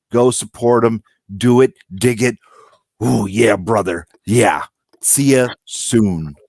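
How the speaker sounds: growling wrestling promo sign-off; Macho Man voice. Pretend. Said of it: "Macho Man voice".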